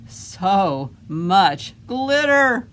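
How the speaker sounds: slow, drawn-out disgust at glitter; exasperated drawl. Acted. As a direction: stretch it out, fed up.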